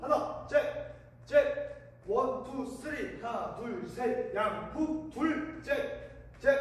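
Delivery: rhythmic workout calls; gym coach. Shown as a demonstration. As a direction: call the combo like a coach. Boxing workout count calls.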